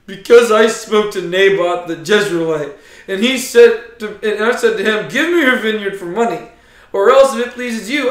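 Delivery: blubbering king. Acted. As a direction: play Ahab as a mopey, self-pitying sulk. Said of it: "imagine him blubbering".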